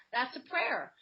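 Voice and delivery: usual speaking voice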